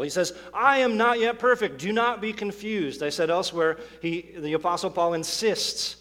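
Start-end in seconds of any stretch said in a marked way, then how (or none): 0.5-3.0 louder, much higher warning to the church; emphatic preaching. Retold or imitated. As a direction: preach it out, insisting on the point. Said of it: "he preaches it to these people".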